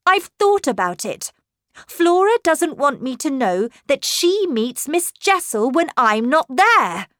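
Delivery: high, loud, emphatic argument; agitated insistence. A narrator's reading. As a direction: press the point urgently. Governess continues her outcry.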